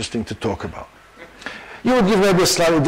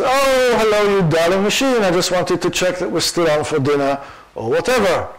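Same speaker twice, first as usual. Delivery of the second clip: high gushing fiancée voice; lightly voiced fiancée, all sugar; sweet fiancée; 4 semitones higher than usual. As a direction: coo at the darling machine, pitched up. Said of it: "This is Jim's fiancée".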